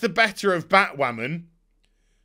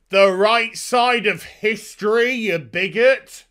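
mock preachy scolding; 4 semitones higher, 5 dB louder than usual. Mocking the twins' preachy voices.

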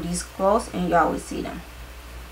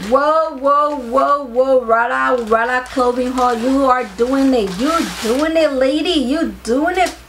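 excited cheering; 2 semitones higher, 4 dB louder than usual. Real, not acted.

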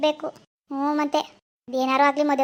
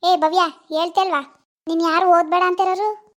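stern scolding aunt; 2 semitones higher than usual. Acted. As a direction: shut the girl down, no arguments. Aunt scolds niece Bhavya.

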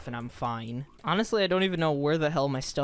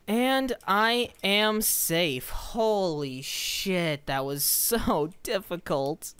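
slow drawn-out relieved sigh of words; 4 semitones higher, much slower than usual. Real, not acted. Gamer finally safe after escape, slow relieved exhale. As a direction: stretch it out, exhausted relief.

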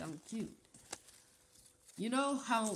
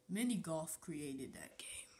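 whisper; 3 semitones lower, 6 dB quieter than usual. Acted. Aside while explaining.

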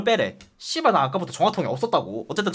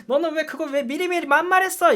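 mock angry scolding; 8 semitones higher than usual. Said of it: "이러는 거야".

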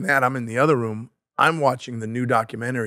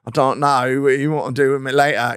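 flirty prince; 5 dB louder than usual. Retold or imitated. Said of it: "looking her up and down, going".

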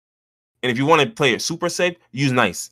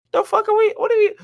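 incredulous; 3 dB louder than usual. Real, not acted. Incredulous rant.

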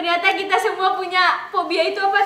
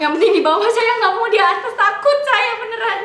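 higher, louder scared applicant; mock scared applicant; 6 semitones higher, 4 dB louder than usual. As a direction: play it timid and frightened. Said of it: "role-play job interview". (pelamar kerja pura-pura takut)

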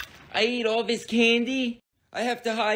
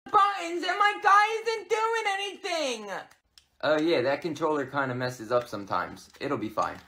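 put-on high whiny little kid; 10 semitones higher than usual. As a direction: play a young boy who just realises he's been tricked. Kid brother gaming voice.

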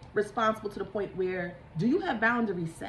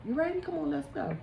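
teasing Grim Reaper. Retold or imitated. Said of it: "the Grim Reapers just keep inching".

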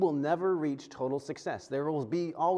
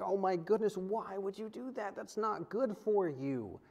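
worried concern; 5 semitones higher, 4 dB quieter than usual. Retold or imitated. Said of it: "that emotion was coming up".

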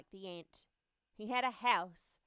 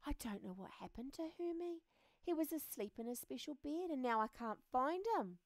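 higher-pitched worried friend; lightly voiced Wormy; 5 semitones higher than usual. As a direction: pitch it up, puzzled over a missing friend. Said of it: "he could hear Wormy saying".

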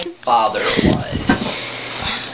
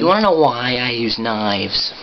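Joker; 2 semitones lower than usual. Acted. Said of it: "do another Joker impression".

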